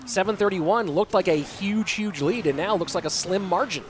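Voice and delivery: brisk, lively esports commentary; live play-by-play. Real, not acted. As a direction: call the match live, lifting on the big moments.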